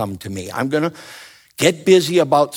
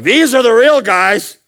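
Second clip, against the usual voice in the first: palm reader; 13 semitones higher, 8 dB louder than usual. Retold or imitated. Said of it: "she's like".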